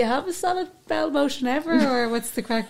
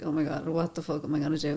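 mock panic; 7 semitones lower, 6 dB quieter, faster than usual. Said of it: "they're just like".

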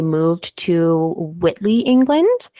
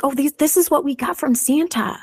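put-on little girl voice; 8 semitones higher than usual. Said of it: "the girls are like".

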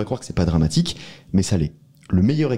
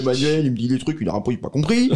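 higher mocking Romain voice; Romain impression; 6 semitones higher than usual. Mocking his cohost Romain to the others, voiced higher. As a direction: caricature him complaining about a colleague. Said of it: "Prends l'accent de Romain".

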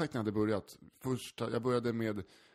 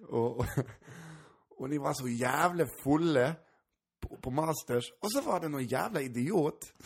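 bad Gotlandic accent; 4 semitones higher than usual. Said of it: "nu är jag jättedålig på gotländska".

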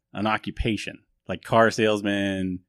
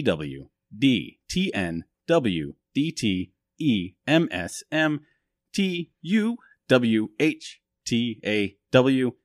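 slow acronym spelling; 4 semitones higher, slower than usual. Shown as a demonstration. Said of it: "reads a long silly acronym".

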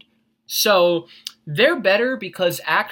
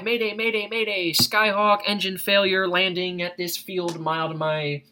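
mayday radio call. Shown as a demonstration. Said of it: "radio one two one point five".

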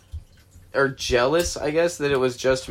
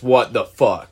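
louder, truly shocked; 4 dB louder, slower than usual. Retold or imitated. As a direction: react like it's beyond weird. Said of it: "this is where it goes from".

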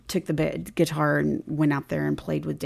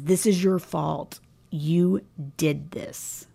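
retold hushed accusation; much slower than usual. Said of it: "And he says".

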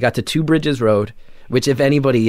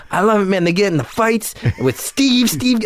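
excited swamp guy; 9 semitones higher than usual. Retold or imitated. Swamp guy gushing about Springer.

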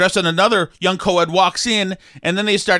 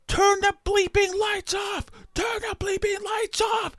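strained high-pitched mock shout, held back in volume; desperate yell; 6 dB quieter than usual. Friend yelling out of nowhere about the lights, desperate. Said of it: "It was desperately said".

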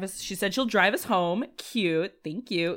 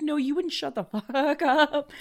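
imitating friend; 9 semitones higher, 4 dB louder than usual. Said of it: "And she's like".

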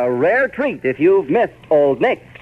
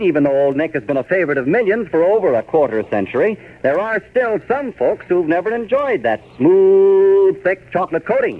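put-on old radio announcer; 3 semitones higher than usual. Sponsor ad read.

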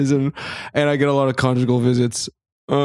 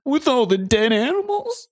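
high squeaky horrified question; mock horror; 12 semitones higher than usual. Mock horror at each place.

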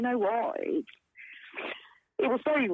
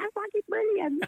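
much higher, mock-delighted exclamation; imitated cackling delight; 13 semitones higher than usual. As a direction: imitate her high cackling reaction. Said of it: "she just did her cackle".

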